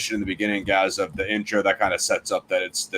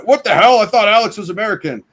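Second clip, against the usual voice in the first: much higher, louder mock bewilderment; mock confused viewer; 11 semitones higher, 6 dB louder than usual. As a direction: squawk it like a baffled viewer. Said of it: "Or like".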